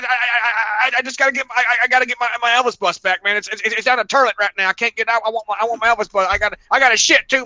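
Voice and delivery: rambling upset caller. Retold or imitated. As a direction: imitate the desperate guy pleading for his bust. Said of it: "And he goes".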